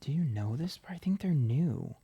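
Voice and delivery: whispered question to herself; whispering. Real, not acted. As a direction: breathe it under your breath. Muttering to herself over the cards.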